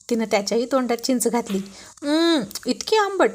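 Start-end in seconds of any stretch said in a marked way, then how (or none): 2.0-3.3 high, drawn-out reaction to sourness; sour-taste reaction. Acted. Husband tastes his wife's sour tamarind, acted sour recoil. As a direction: recoil vocally from a very sour bite.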